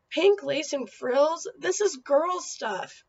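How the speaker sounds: slow, drawn-out complaint, a hint of a grumpy boy; complaining. Eddie grumbles over his valentine, mild slow complaint. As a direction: whine it like a fed-up kid. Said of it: "Eddie complained".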